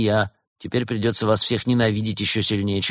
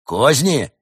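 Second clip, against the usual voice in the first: loud, raised demands; flustered shout; 6 semitones higher, 7 dB louder, slower than usual. Acted. Badger demands to see the landlord, flustered shouting. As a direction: blurt accusations in confusion. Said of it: "в замешательстве выкрикнул барсук".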